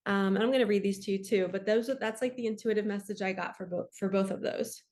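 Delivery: talking while short of breath; breathless, rushing the words. Real, not acted. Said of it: "out of breath".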